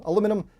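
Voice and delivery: "aluminium" said a-LOO-min-um; "aluminium" shortened to a-LOO-mi-num; American pronunciation. Shown as a demonstration. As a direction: drop the second i of "aluminium", American style. Trying variant pronunciations of one word.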